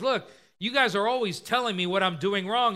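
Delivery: mildly fed-up younger brother; weary of being blamed; exasperated. Acted. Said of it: "He's almost exasperated".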